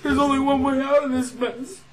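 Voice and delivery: hammy dramatic line read; overdone tragic delivery; bad acting. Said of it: "I think I'm a terrible actor".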